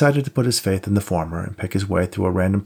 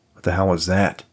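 a touch of fear; 2 semitones lower than usual. Acted. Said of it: "a note of fear creeping into his voice".

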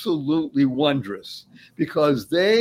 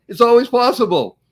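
higher, louder playful punchline; twinkle in the eye; 7 semitones higher, 6 dB louder than usual. Retold or imitated. Host quoting the Dalai Lama's playful reply. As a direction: deliver it with a twinkle. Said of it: "with a twinkle in his eye".

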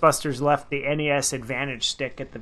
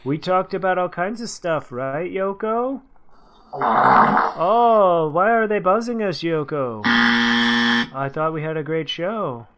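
put-on British accent; 2 semitones higher, 5 dB louder, slower than usual. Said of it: "British, uh, famous singer's accent".

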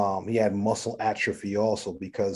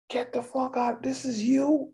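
pitched way up, thrilled and incredulous; excited disbelief; 4 dB quieter, slower than usual. Retold or imitated. Patient finding out his favorite MC helped him, excited disbelief. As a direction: yelp it like you can't believe your luck. Patient running around hospital, amazed.

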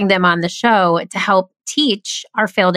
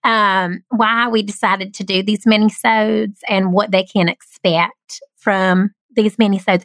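put-on Southern accent. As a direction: lean playfully into a Southern accent. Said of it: "do it in the Southern accent".

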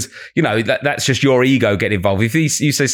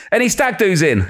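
playful crowd call; 7 semitones higher than usual. Retold or imitated. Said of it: "And I went".

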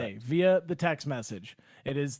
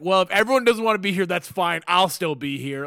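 mock martyr; 4 dB louder than usual. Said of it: "I became the martyr".

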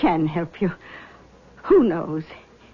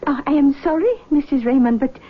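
seance medium. Acted. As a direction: greet them like a gracious clairvoyant. Medium sends mother away.

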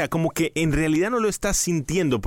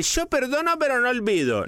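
mock grudge; 9 semitones higher than usual. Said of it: "Nada de".

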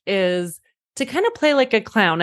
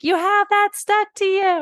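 put-on high, shouted child voice; kids yelling out; 13 semitones higher than usual. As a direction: call it out like an excited kid in the crowd. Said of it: "the kids in the audience all yell out".

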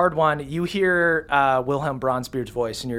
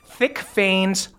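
slow, emphatic monster description; game master narration; slower than usual. Acted. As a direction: dwell on each feature, slowly.

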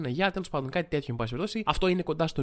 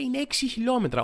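higher, falling on έξι as if announcing a fact; mock article read; 9 semitones higher than usual. Reading the article aloud to viewers, pointed mock announcement. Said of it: "διαβάζω παρακάτω και λέει".

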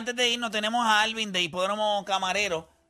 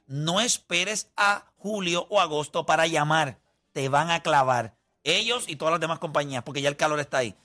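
infomercial. Acted. Infomercial continues.

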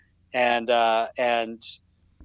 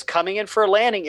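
put-on playful child; 8 semitones higher, faster than usual. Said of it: "and she goes".

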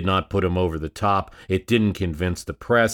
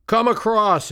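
high, impatient heckling shout; heckler's jeer; 13 semitones higher, 3 dB louder than usual. Retold or imitated. A bored heckler hurries the speaker with a high mock shout. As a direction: call out up high to hurry him. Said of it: "a heckler said".

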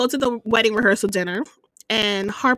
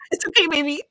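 soothing a scared dog; 8 semitones higher, 3 dB louder, faster than usual. Retold or imitated. Re-enacting the TV scene.

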